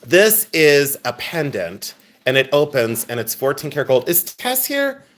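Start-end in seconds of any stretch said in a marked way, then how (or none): 4.1-5.0 excited call. Real, not acted. Excited calling out for viewer.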